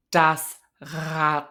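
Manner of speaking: Rad with a voiced uvular fricative R. Shown as a demonstration. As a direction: growl the R at the back of the throat in Rad. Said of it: "I've got some examples for you".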